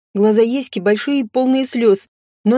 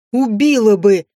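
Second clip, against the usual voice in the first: hissed threat; 4 dB louder than usual. A narrator's reading. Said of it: "прошипела".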